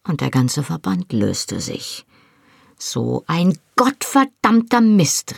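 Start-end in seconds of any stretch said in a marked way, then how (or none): 2.8-5.4 high, slow exasperated curse; frustrated cry. A narrator's reading. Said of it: "rief ich und hieb frustriert".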